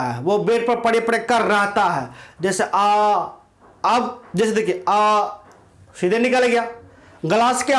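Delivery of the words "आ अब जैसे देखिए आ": vowel sound aa. Shown as a demonstration. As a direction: open throat aa sound, demonstrated. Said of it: "गला से निकल गया". (गले से सीधा निकलता "आ")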